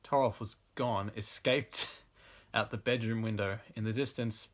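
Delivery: measured read-aloud narration; story narration. A narrator's reading. Reading bad erotic fiction to an audience, story narration. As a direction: narrate the passage like an audiobook.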